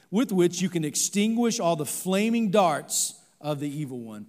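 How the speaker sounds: loud, ringing Bible reading to the congregation; scripture reading. Acted. Pastor reading Ephesians to the standing congregation, loud and solemn. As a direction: proclaim the verses with weight.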